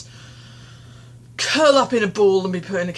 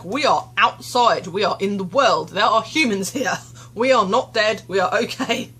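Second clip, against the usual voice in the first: louder pep talk; 3 semitones higher, 5 dB louder than usual. Retold or imitated. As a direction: cheer yourself on out loud. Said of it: "I was like".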